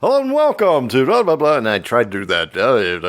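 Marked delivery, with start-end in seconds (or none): 0.0-1.6 cheesy radio host intro; booming announcer welcome. Retold or imitated. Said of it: "stupid radio voice".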